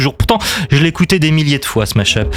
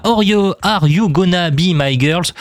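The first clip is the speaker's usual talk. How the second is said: French-accented English; 3 semitones higher than usual. Real, not acted. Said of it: "toujours avec mon superbe accent anglais".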